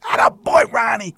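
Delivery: loud, high hollered praise; jubilant cheering. Retold or imitated. Manager praising umpire for the balk, acted jubilant yell. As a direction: cheer him on at full voice.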